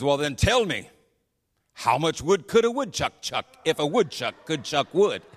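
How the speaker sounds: lightly voiced guide setting a test; tongue-twister challenge. Guide tests the couple's English, with a playful challenge. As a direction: recite the tongue twister as a dare, punching the beats.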